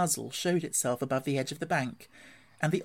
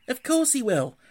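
high, louder, amused otter voice; chuckling; 10 semitones higher, 6 dB louder than usual. A narrator's reading. Otter agrees with Rat about Toad, chuckling. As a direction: say it with a touch of a chuckle. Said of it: "chuckled the otter".

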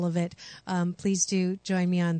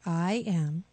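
calm affirmation. Shown as a demonstration. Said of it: "Repeat after me".

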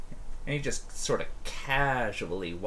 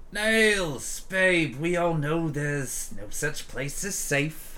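Marcus, smooth; 2 semitones higher than usual. Acted. Ganger leader sweet-talks the bar owner, sly. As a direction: charm her with street talk. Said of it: "And he's like".

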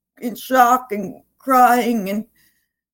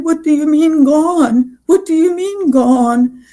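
mild retold scream, raised and louder; retold distraught cry; 4 semitones higher, 5 dB louder than usual. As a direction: relive the outcry, voice raised but restrained. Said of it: "I started screaming and crying and said".

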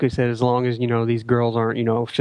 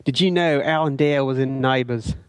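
dubious Kiwi accent that slips toward Cockney; attempted Kiwi accent; 2 semitones higher than usual. Shown as a demonstration. Co-host answering a request for feedback in accent, attempted Kiwi accent. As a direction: put on a not-so-authentic Kiwi accent. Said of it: "Kiwi accent go".

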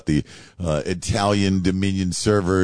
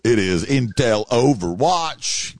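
loud, high radio host greeting; radio host shout; 10 semitones higher, 3 dB louder, slower than usual. Acted. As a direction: hype up the show opening. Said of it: "it's your buddy the host".

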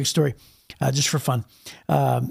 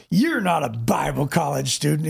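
amused disbelief. Retold or imitated. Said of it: "he started laughing".

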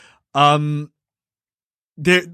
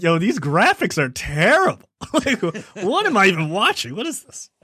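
mock disgusted kid; 5 semitones higher than usual. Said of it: "he's like".

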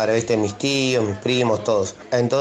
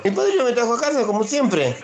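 put-on much higher, insistent child; a boy insisting he's telling the truth; voz de niño; 10 semitones higher than usual. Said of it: "le digo". (nene insistente con voz aguda)

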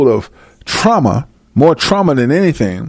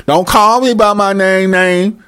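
mock mad woman; 3 semitones higher than usual. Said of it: "she mad".

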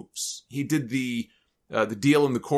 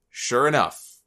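usual speaking voice

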